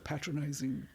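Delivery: posh drawling art critic; haughty, patronising English; Brian Sewell. Retold or imitated. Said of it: "that's Brian Sewell".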